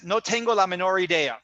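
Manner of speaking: put-on Spanish said in a light American English accent; lightly imitated American English accent in Spanish. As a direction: imitate a friend's American English accent on "No tengo la menor idea". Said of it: "in his American English accent".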